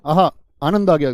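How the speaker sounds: खुशी. Shown as a demonstration. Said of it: "खुशी का भाव पैदा करते हैं वो होते हैं आहा".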